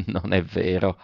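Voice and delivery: soft murmur with a strained little laugh; murmured forced smile. A narrator's reading. Alberto murmurs to his cousin, forced smile, softly. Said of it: "sorrise stentatamente e mormorò".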